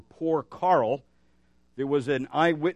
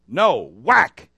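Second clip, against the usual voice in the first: put-on child's denial; 10 dB louder than usual. Child denies again, bat whack.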